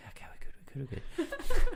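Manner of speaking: quick breathy babble rising into a squeak; strained self-reassurance. Retold or imitated. Retelling reassuring himself while winded, mock panicked. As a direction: talk yourself down, mock panicky.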